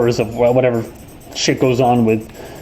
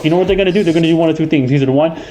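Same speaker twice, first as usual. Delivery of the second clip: put-on New York accent, higher; 4 semitones higher, faster than usual. Shown as a demonstration. Streamer explains the reactions New Yorkers get, New York accent. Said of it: "if I talk like this".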